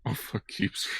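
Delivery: hushed aside under the breath; whispered curse. Real, not acted. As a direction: whisper it to yourself. Muttered aside.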